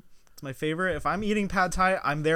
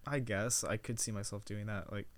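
whispered aside; 8 semitones lower, 11 dB quieter than usual. Real, not acted. Muttered aside.

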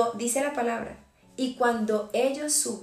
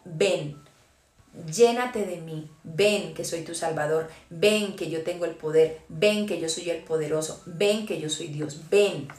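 the Lord calling, lower; 5 semitones lower, slower than usual. Acted. Preacher voicing the Lord.

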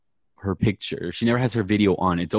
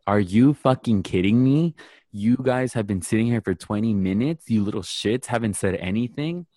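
retold angry professor, raised pitch on the outbursts; triggered cursing; 2 semitones higher than usual. Professor cursing at her Zoom class, triggered. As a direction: imitate a professor losing it at students. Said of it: "got triggered and she started cursing at them".

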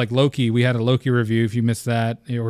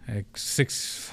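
breathy near-whisper; whispered aside; 2 semitones lower, 10 dB quieter than usual. Real, not acted. Host mutters a correction to himself, whispering. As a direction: drop to a whisper mid-thought.

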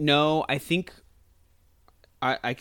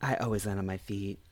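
smug cat line; 3 semitones lower, 6 dB quieter than usual. Retold or imitated. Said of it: "She's like".

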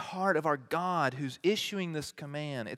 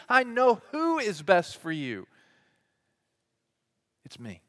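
God's voice; 7 semitones higher, 4 dB louder than usual. Pretend. God telling his people he knows what's best, swelling then hushed. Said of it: "And God says".

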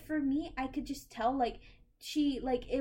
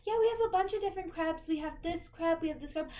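higher, quick, eager counter-staff pitch; crepe shop service voice; 4 semitones higher, faster than usual. Shown as a demonstration. At the crepe place, pitching crepes to a customer. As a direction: sell the crepes brightly and fast. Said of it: "I worked at a crepe place".

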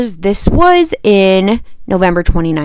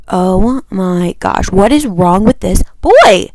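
very slow, dragged-out exasperation; slow fed-up rant; exasperated disbelief; slower than usual. Retold or imitated. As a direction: groan it out in disbelief. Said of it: "And I'm like".

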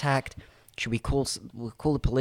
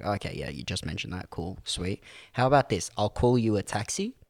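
much softer, dry and patient; quiet sarcastic aside; 4 semitones lower, 5 dB quieter than usual. Retold or imitated. To the woman in the park, much softer and dry. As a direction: humour her quietly, hiding irritation. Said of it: "It's like".

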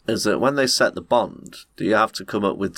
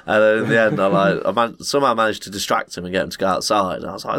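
usual speaking voice

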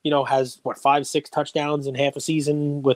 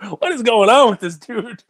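higher, slow and baffled; baffled quote; 8 semitones higher than usual. Retold or imitated. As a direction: ask it like you can't believe it. Baffled reaction to player's posts.

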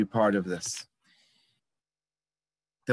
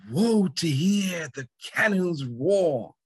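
higher, slow, grandiose actor's voice; hammed-up stage declamation; 5 semitones higher, slower than usual. Actor rehearsing his line when no one is around, hammy and slow. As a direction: boom it out like a proud ham actor.

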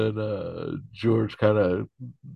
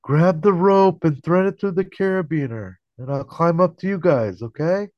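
much higher, much louder call up a rock face; retold yell from below, higher and louder; 11 semitones higher, 8 dB louder than usual. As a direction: shout it up the cliff to George. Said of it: "Tony yells up to Kramer and George".

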